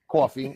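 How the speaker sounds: "Coffee" said as "cawfee"; local pronunciation. Shown as a demonstration. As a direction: stress a rounded aw in "Coffee", like "cawfee". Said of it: "That's the right way to say it".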